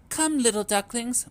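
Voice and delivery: sing-song calling mother duck. A narrator's reading. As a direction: call them over, mama duck. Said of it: "Mama called again".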